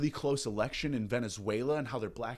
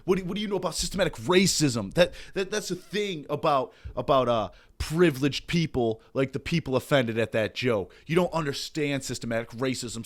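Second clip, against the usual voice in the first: preachy mock activist lecturing. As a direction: play a smug lecturing activist. Mock woke lecturer rant.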